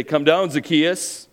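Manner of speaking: loud, stern condemning call; angry crowd. Acted. Preacher voices the crowd condemning Zacchaeus, loud and stern. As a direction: demand he come down and pay. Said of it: "The crowd wants to hear Jesus say".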